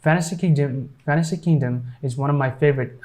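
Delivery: "fantasy" said as "fannasy"; silent T. Shown as a demonstration. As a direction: drop the T in "fantasy". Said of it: "keep this T silent".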